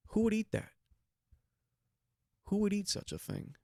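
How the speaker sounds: high, disbelieving; incredulous squeal. Real, not acted. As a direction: raise it up in disgust. Incredulous rant about eel.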